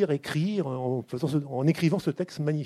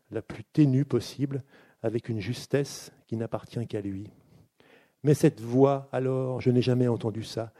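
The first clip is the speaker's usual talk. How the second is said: lecture d'un extrait. Acted. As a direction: lecture posée et grave d'un passage de roman. Host reads excerpt aloud. (l'animateur lit un extrait du livre à voix grave et posée)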